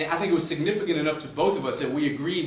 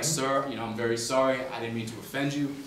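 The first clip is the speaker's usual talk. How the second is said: serious; 2 semitones lower, 4 dB quieter than usual. Retold or imitated. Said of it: "she gets real serious on me".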